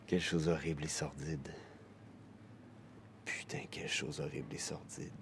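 low voice sinking to near whisper; quiet, appalled muttering; hushed disgust. Acted. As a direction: let it drop away, barely voiced.

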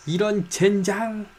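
high, slow hammed-up curse; cursing under breath. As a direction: drag out the curse, high and theatrical. Theatrical outburst at betrayal.

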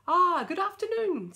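high, loud sly witch greeting. Acted. Witch calling sweetly to David at the door, high and loud. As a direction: put on a wheedling witch voice at the door.

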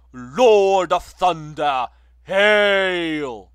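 exultant high shout; ringing herald cry. Acted. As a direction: call out his arrival like a herald. Herald hails the god.

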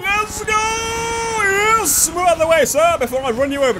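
high, loud whoop into hurried warning; excited shouting. Real, not acted. Gamer setting off at bystanders, high excited shouting. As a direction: holler with glee, easing off slightly.

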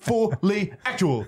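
"Fully actual" broken into "Ful, ly, actual"; three chunks. Shown as a demonstration. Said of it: "Depends all in how you say it".

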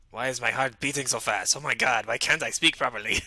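loud, agitated self-questioning; panicked. Acted. Sufferer alarmed by a racing heart, panicked. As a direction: blurt it out in mounting alarm.

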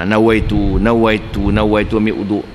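low, repeated nawaitu of a doubter; repeated intention. Acted. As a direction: say nawaitu over and over, low and steady. (niat berulang-ulang)

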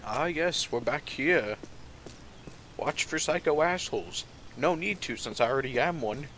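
a hint of an old man; lightly voiced old geezer. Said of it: "this old man voice".

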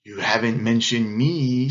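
loom over them as a slighted python. A narrator's reading. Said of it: "said Python".

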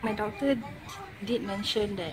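speaking around new braces; slightly careful articulation; talking with braces. Real, not acted. Seen 1: Metal braces clearly visible on teeth while she talks lying down.

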